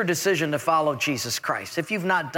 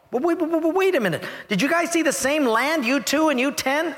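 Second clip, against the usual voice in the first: tag; 8 semitones higher than usual. Acted. Moses acted, puzzled by reports.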